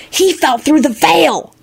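put-on high, drawn-out child protest; agitated Timothy. A narrator's reading. Timothy arguing about the dead man, agitated.

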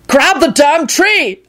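high, drawn-out order; slow, insistent yell up high; exasperated shout. A narrator's reading. Quentin shouting at Lucretia in tree.

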